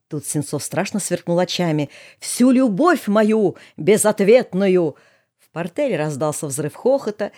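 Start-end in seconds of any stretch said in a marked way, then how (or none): 2.2-5.0 mock passionate bard. Пылкое шуточное признание в любви.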